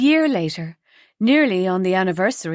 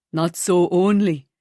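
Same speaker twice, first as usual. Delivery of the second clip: smile in voice; 3 dB louder than usual. A narrator's reading. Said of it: "he said with a smile in his voice".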